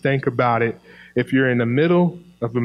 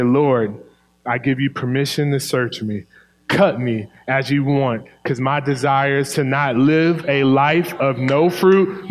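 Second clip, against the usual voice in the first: prayerful plea. Pretend. Prayer voiced as own petition.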